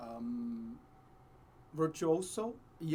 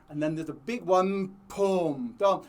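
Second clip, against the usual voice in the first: mock thunder boom; 2 semitones higher, 6 dB louder than usual. Shown as a demonstration. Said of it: "lightning and thunder".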